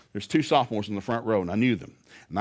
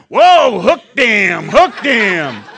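put-on 1 kids jeering; 8 semitones higher, 15 dB louder, much slower than usual.

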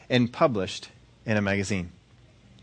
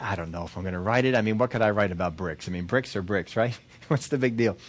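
lower, offhand reluctance; dismissive; 3 semitones lower, 3 dB quieter than usual. Acted. Woman answering her people about the challenge, dismissive. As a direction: shrug it off with a small laugh.

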